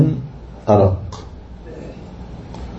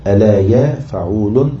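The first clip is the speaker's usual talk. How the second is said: metrical scansion; slower than usual. Shown as a demonstration. Scanning verse foot by foot.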